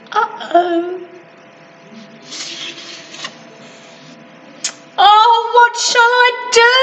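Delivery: put-on high, fast, anxious girl; worried cry. Little girl sees her ball stuck, high anxious cry. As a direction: panic a little over the lost ball. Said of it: "cried the little girl".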